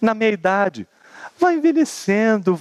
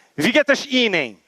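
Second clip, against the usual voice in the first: put-on carioca Rio de Janeiro accent. Imitating the first arrival saying a german phrase, in a rio accent. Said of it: "esse aí é do Rio".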